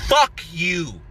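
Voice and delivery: a short shouted curse; half-yelled comeback; retold shout. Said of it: "So I said".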